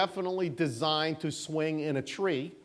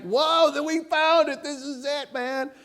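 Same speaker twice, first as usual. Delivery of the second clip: much higher, giddy mock cheer of discovery; imitating giddy excitement; 9 semitones higher than usual. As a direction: play the thrilled scientist, half-mocking. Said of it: "he's so excited".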